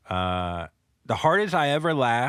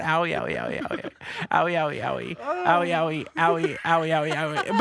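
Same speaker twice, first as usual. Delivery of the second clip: mock pained whimper; 6 semitones higher, 3 dB louder, faster than usual. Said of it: "he's trying to be quiet with it".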